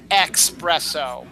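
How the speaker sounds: espresso said slowly as "ex-PRESS-oh"; mispronunciation. Shown as a demonstration. Host showing what not to say, slow mispronunciation. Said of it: "It's not espresso".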